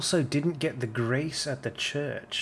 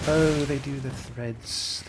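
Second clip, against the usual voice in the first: alarmed surprise; 4 semitones higher, 5 dB louder, slower than usual. Real, not acted. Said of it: "fuck me".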